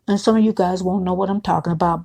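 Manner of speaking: normal talking voice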